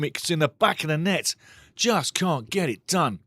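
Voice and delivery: ordinary delivery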